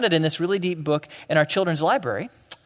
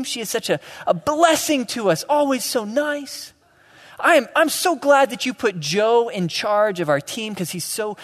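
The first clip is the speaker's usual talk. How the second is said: high, sugary fake gratitude; a hammed-up sweet contestant gushing about teammates; mock gushing contestant; 4 semitones higher than usual. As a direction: gush like a sappy reality show contestant. Mock grateful reality contestant.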